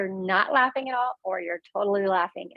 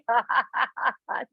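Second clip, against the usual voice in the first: laughing. Shown as a demonstration. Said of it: "keep laughing".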